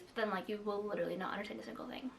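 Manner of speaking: fast, hushed whisper; whispered aside. Real, not acted. Whispering fast to viewers about languages she can't follow. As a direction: drop to a quick conspiratorial whisper.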